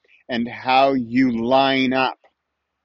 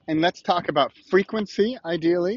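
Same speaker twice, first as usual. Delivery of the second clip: ordinary talk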